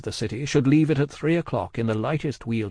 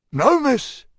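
loud, raised, rustic character voice; solemn Cockney servant; 14 semitones higher, 6 dB louder than usual. A narrator's reading. Cruncher answering Miss Pross, solemn and earnest. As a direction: declare it earnestly, well above your usual pitch.

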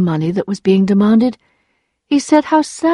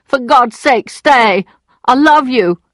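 raised, urgent plea; mildly shouted, pitched up and pleading; 5 semitones higher, 4 dB louder, slower than usual. A narrator's reading. Lawyer on his knees to Emma, pleading shout.

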